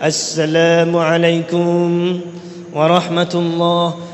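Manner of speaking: slow, low, chanted preacher's greeting; Zainuddin M Z. Acted. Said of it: "mesti assalamualaikumnya macam itu". (meniru salam khas dai, rendah dan mengalun)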